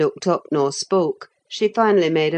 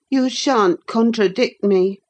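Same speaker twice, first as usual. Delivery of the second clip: put-on girl voice; 6 semitones higher than usual. Cathy scolds.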